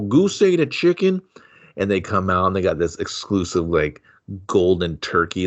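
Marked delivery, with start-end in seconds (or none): 0.0-1.2 much higher, slow squawked retort; hammed-up high outburst; mock yell. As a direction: yelp it like an outraged buddy. Character snaps back in the made-up movie.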